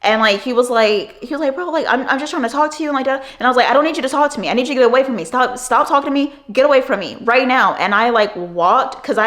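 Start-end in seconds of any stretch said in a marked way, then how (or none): 1.5-3.2 higher, whining protest; mock his whiny excuse; a creep whining he just wants to talk; whiny Chris. 3.7-7.8 raised, insistent voice; a mild retold angry demand to a creepy coworker; firm demand.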